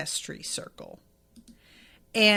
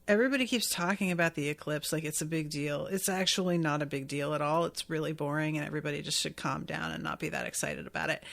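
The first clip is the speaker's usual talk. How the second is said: lower, fast, bored brush-off; a lightly imitated dismissive lecture, lower and quick; mock dismissive; 4 semitones lower, 4 dB quieter, faster than usual. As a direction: rattle it off like a weary know-it-all. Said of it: "he essentially was just like".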